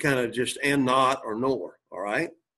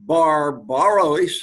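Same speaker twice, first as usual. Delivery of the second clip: sounded out slowly; 4 dB louder, much slower than usual. Shown as a demonstration. Sounds out Greek word, then repeats.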